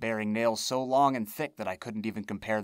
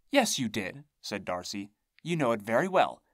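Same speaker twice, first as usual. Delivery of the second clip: insistent hag voice. Acted. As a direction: insist like a cranky witch.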